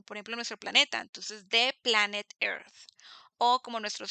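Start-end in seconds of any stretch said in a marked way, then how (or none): 1.5-2.7 said slowly for the class; slow, careful example; slow demo phrase. Shown as a demonstration. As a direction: draw out the planet Earth.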